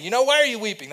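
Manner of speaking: high, loud reproachful question; scolding. Acted. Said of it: "He doesn't approach her scolding".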